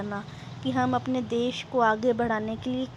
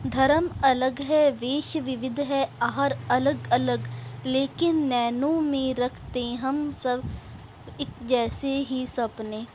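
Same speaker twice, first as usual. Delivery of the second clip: measured, rhythmic verse reading; poem recitation. Acted. Teacher reading the next verse to pupils, rhythmic recitation. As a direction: recite line by line with lengthened words.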